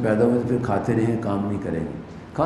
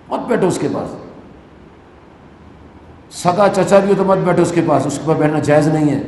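fiery warning; 3 semitones higher, 5 dB louder than usual. Real, not acted. Preacher warns congregation, rising fervour.

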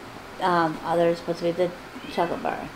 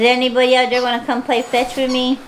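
eager playful pup, a bit higher; dog voice; 5 semitones higher, 3 dB louder than usual. Acted. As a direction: call out as the dog wanting fetch. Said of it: "She says".

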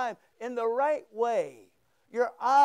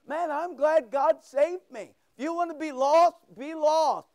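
raised, fervent praise cry; higher-pitched, exuberant declaration; enthusiastic yell; 4 semitones higher than usual. Acted. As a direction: call it out like rejoicing. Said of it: "that means an enthusiastic yell".

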